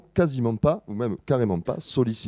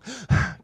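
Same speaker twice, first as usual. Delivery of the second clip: rhythmic sigh; 10 semitones higher, 5 dB quieter than usual. Shown as a demonstration. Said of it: "comme ça, juste pile en rythme".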